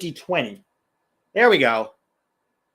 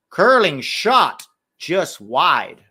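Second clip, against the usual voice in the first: loud, slow punched shot call; excited play-by-play; 7 dB louder, much slower than usual. Real, not acted. Commentator calling a curling shot, excited play-by-play. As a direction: stretch and punch each key word.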